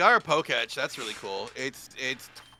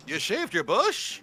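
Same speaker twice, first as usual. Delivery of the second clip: Jerry Seinfeld impression; 4 semitones higher, slower than usual. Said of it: "do it like fucking, uh, Jerry Seinfeld".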